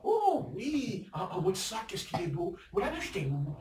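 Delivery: butter someone up about their bag; flattering compliment. Acted. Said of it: "Les petits compliments".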